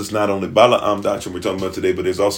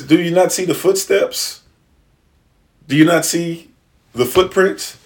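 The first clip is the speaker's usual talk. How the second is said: triumphant reveal; 7 semitones higher than usual. Acted. Daniel reveals footprints to king.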